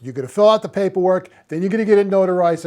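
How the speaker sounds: imitating a hurried clerk reading off steps; brisk retold instructions. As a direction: rattle it off like a busy clerk.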